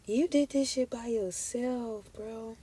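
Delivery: slow, choked-up praise; about to cry. Real, not acted. Tarot reader moved to tears for her viewer, choked up. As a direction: hold back real tears while praising. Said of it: "I don't know why I'm about to cry".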